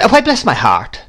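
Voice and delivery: high-pitched exclamation of surprise; exclaiming. A narrator's reading. Miss Betsy seeing the mother's face, exclaiming. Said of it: "exclaimed Miss Betsy".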